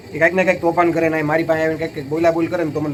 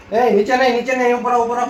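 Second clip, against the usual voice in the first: raised higher call upstairs; 8 semitones higher than usual. Real, not acted. Calling kids back upstairs.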